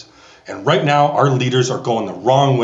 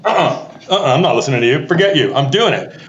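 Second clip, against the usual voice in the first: put-on defiant child; 2 semitones higher than usual. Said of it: "So I'm just like".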